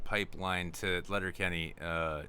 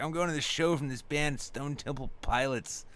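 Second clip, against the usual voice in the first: lightly voiced young fan, pitched up; twentysomething concertgoer; 5 semitones higher than usual. Twentysomething telling about a show, lightly mocked fan. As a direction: raise the pitch, then stretch out the band name. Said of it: "like, someone in their twenties".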